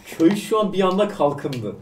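laughing through the line; amused, chuckling slow delivery. Real, not acted. GM laughs at village boom.

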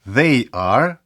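"They are" as two separate words, "they" rising. Shown as a demonstration. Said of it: "Це два, два слова". ("They are" двома словами)

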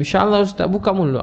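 coaxing friend. Retold or imitated. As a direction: sweetly press him to open up. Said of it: "dia kata".

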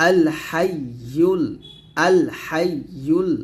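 হাইয়ুল with tongue-middle pressed to palate, "hay-yul"; doubled ya. Shown as a demonstration. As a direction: lean on the "yy" in হাইয়ুল. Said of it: "উচ্চারণটা চলে আসবে". (হাইয়ুল-এর ইয়া চেপে ধরে উচ্চারণ)

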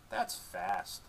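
high, hushed dog voice, let down; deflated dog voice. A narrator's reading. Dog disappointed by the answer, deflated dog voice. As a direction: let the air out of it. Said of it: "she deflates a little".

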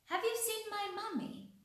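a duckling asking for its mummy in a high voice; little duckling voice. Acted. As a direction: ask like a tiny lost duckling. Duckling asks animals for mother.

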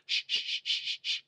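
put-on whispered shh shh shh at a crying baby; mocking a parent's soft shushing. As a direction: hush the baby with a useless whisper. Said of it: "don't sit there and go".

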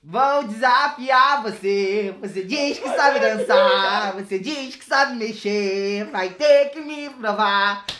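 helium voice. Real, not acted. Singing after inhaling helium.

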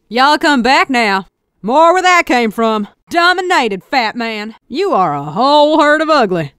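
a sassy Texan cowgirl barking battlefield lines. Acted. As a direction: play the Texan engineer, cocky and folksy.

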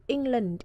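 England with ENG stressed, land light; stress on first syllable. Shown as a demonstration. Teacher showing where stress falls in England, first-syllable stress. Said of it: "trọng âm rơi vào âm đầu".

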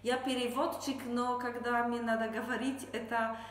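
Polish accent. Real, not acted. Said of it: "Извините за мой русский язык".

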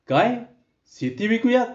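high, stunned repeat of her words; shocked disbelief. Acted. Husband stunned by wife's idea, high shocked cry. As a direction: recoil in disbelief at selling the land. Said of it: "विकासचे डोळे क्षणात विस्पारले गेले".

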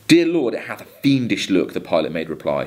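a steady, measured recitation of a ballad; poem reading. Acted. Teacher reading Coleridge to students, measured poem recitation. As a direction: read the verse to the class with care.

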